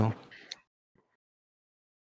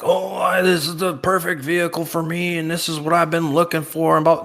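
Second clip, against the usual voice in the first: excited; 8 semitones higher than usual. Retold or imitated. Imitating an eager car buyer.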